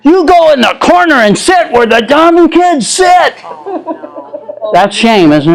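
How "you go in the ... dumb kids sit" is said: mock angry teacher. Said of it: "And she got so mad".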